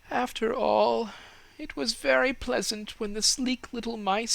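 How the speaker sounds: put-on high, dreamy voice of the old fir tree; wistful fir tree. A narrator's reading. Tree muses to itself.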